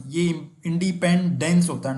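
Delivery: इंडिपेंडेंस said slowly, the last syllable stressed; slow teaching stress on इंडिपेंडेंस; stress the ending. Shown as a demonstration. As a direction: stretch out इंडिपेंडेंस so the "dence" ending is clear. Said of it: "ना कि डांस".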